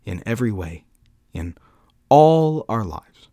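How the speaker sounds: measured devotional reading, building then settling; solemn quote reading. Acted. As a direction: read it out like a heartfelt creed, with deliberate pauses. Reads Calvin quotation aloud.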